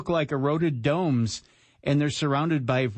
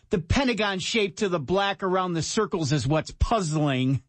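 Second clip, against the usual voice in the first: higher-pitched, lightly snarky read; snarky quote reading; 4 semitones higher than usual. Acted. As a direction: add snark to the quoted comment. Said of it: "You're adding the snark, aren't you?".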